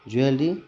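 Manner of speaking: jewelry said "jue-lti"; a teacher shows a mistaken pronunciation; wrong pronunciation. Shown as a demonstration. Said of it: "then it will be wrong".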